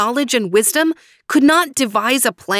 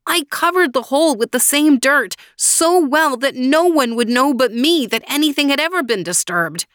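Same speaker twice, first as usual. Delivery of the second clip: higher, moaning lament; pitched-up unhappy moan; 8 semitones higher, 3 dB louder than usual. Acted. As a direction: moan about how careful he was. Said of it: "moaned the unhappy man".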